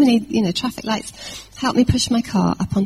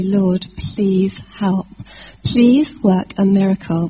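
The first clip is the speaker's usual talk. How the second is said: urgent prayer; 4 dB louder, slower than usual. Retold or imitated. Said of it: "panicking and praying urgently".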